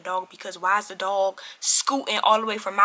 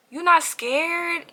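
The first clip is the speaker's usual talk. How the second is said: slow incredulous question; 7 semitones higher, much slower than usual. Retold or imitated. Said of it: "so I'm just like".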